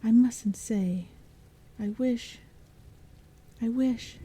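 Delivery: mock-dramatic girl teasing the goblins; theatrical. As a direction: play it up for the shadows. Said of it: "addressed them theatrically".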